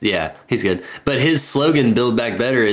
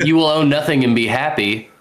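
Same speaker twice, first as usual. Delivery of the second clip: mock German villain; 3 semitones higher than usual. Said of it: "Why do you wanna sound like a Bond villain?".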